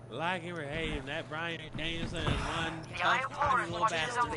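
commentator impression. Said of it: "I love the way he described it".

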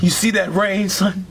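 low, mournful musing; brooding. Acted. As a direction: say it with heavy melancholy. Depressed father at window.

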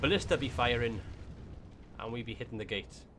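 slipping into an Irish lilt; playful hint of Irish; accidental Irish accent. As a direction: say it with a light, unintended Irish accent. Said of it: "I'm sounding Irish right now".

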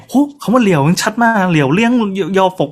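mock admiration with a touch of excitement; impressed listener. Playing a contest listener praising a bird's clear words, mildly impressed. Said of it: "เวลาเขาฟังเขาจะฟังเป็นคำๆ".

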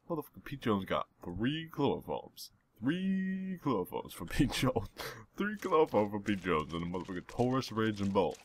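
hammed-up swagger; character brag. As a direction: crow over the loot in character. Bragging in Pete Jones voice.

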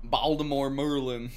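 put-on slow go at a Baltimore accent; Baltimore-style "Merlin" for Maryland, drawn out; attempted Baltimore accent. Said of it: "I'm probably still fucking it up".

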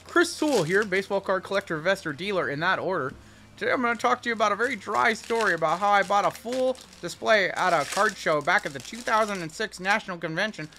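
dry, straight-to-the-point collector vlogger; deadpan card-collector host impersonation; Chris Sewell. Acted. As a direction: deliver a very dry story to camera. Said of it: "not a bad Chris Sewell impersonation".

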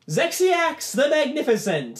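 high, loud, drawn-out name reveal; announcer's call. Acted. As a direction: ring out the winner's name slowly. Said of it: "draws out and goes".

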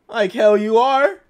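loud, slow defiant sneer; scornful retort. Acted. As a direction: spit it back with contempt. Prosecutor scoffs at defense.

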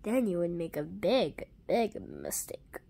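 low, hushed menacing warning; whispered threat. Acted. Villain warns in low voice.

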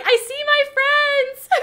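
high, slow sing-song bird voice; loud, slow, high pet voice with a laugh; voicing the bird. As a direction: talk for the bird, drawn out and high. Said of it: "He's like".

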